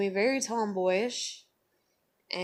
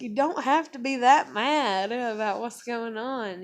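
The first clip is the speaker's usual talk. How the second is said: mock parental scolding; 5 semitones higher, 5 dB louder than usual. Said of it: "I'd be like".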